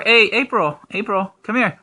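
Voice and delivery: calling out. Real, not acted. Calling the child.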